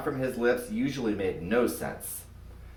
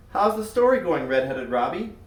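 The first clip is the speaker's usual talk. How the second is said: breezy greeting; 5 semitones higher, 3 dB louder than usual. Acted. Cool girl greets Robbie.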